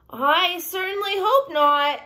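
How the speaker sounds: high, slow, drawn-out owl; hooty storybook owl objecting. A narrator's reading. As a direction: stretch the vowels like a worried owl.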